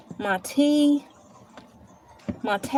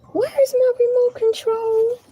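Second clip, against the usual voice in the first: exasperated; 10 semitones higher than usual. Real, not acted. Searching for lost remote.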